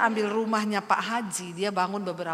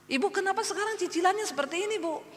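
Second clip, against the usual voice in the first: higher, quicker cross creditor; mock angry; 9 semitones higher, faster than usual. Landlord confronting the woman over late payments, mock angry. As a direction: imitate an irritated complaint, pitched up. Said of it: "Pak Hajinya marah-marah".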